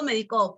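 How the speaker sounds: "medicó" hit on the last syllable; stress on CÓ of medicó. Shown as a demonstration. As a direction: lean on CÓ in "medicó". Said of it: "el acento cumple función distintiva". (acento final en CÓ de «medicó»)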